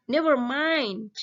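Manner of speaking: slow, careful model phrase for the class; teacher modelling an English phrase; model reading aloud. Shown as a demonstration. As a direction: read it out clearly for pupils to copy. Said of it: "Kemudian responnya kita baca bareng-bareng".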